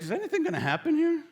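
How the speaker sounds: high, fast, impatient whine; exasperated fan. Retold or imitated. Bored fan at a scoreless baseball game, exasperated. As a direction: plead for something to happen.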